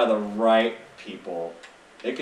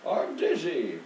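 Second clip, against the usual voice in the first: slightly raised little dizzy voice; imitated game character; 5 semitones higher, slower than usual. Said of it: "the character did a little".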